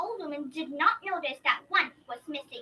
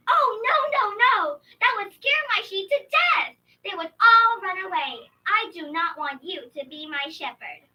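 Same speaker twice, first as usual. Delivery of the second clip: put-on alarmed old woman; 4 semitones higher, 11 dB louder than usual. Old woman rejects wolf.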